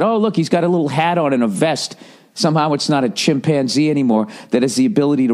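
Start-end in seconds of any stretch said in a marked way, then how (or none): 0.0-2.0 doting on the monkey. Retold or imitated. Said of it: "Everybody looks at".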